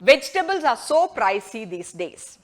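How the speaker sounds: very slow, carefully spaced; slow model sentence. Shown as a demonstration. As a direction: read it slowly for learners. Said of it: "നമുക്ക് അതെങ്ങനെ ഒരു sentence".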